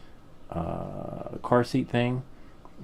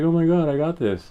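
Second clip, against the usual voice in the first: high, louder self-quote, thrilled; acted giddy certainty; excited confidence; 9 semitones higher, 6 dB louder than usual. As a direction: replay a burst of cocky excitement. Retells his confidence at audition.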